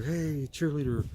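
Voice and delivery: a hint of over-the-top cheerleading; mock cheerleader. Speaker mocking over-eager encouragement to listeners, mock cheerleader. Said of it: "I don't wanna be, like, over, you know, over".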